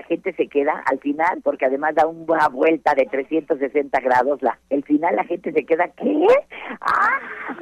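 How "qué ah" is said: mock startled gasp from the audience. Actress retelling audience surprise, startled gasp. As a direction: act out the crowd's shocked reaction. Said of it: "Hasta grita".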